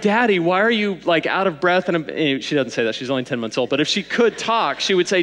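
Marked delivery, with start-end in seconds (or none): 0.0-1.9 put-on lightly raised child's voice; a hint of a little girl asking daddy; toddler voice. Baby daughter voiced.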